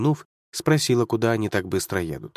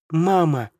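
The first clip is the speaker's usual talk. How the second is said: higher, louder cry of Мама!; shout; 6 semitones higher, 3 dB louder than usual. Acted. Girl screams for her trapped mother, loud cry. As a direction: call out Мама! in panic. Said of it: "И сразу закричала".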